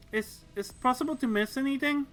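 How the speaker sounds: hesitant, stammering question; nervous. Acted. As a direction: ask it unsure and anxious. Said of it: "she asked nervously".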